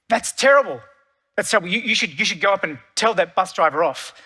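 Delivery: hammed-up fuming at the bus driver; irate old man. Old man on the bus fumes about the driver, mock irate. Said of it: "gets just fuming, gets really irate".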